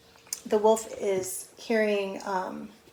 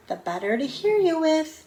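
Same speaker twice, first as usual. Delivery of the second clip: wolf as Granny; 7 semitones higher, 3 dB louder than usual. Acted.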